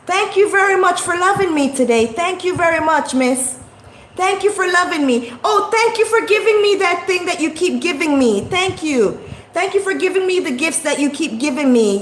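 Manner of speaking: mock gushing thank-you; sarcastic thanks. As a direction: gush with sarcasm.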